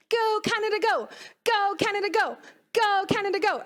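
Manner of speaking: high-pitched, polite little chant; mock Canada cheer in a high voice; Canadian fans. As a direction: imitate Canadian supporters, pitched well up. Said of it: "Let me do my impersonation".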